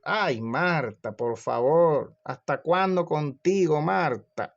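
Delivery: plead, then build to exasperation; exasperated reproach. Acted. The Lord answers busy Martha in her house, exasperated reproach. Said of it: "¿qué le respondió el Señor?".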